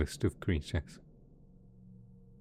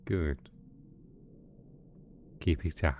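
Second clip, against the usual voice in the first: gentle coaxing; 2 semitones lower than usual. Acted. Villain coaxing two pet dragons to eat, gently soothing.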